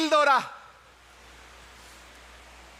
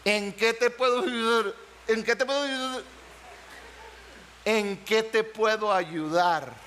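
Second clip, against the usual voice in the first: gentle offer; 4 semitones lower than usual. Shown as a demonstration. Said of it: "¿Cómo decía?".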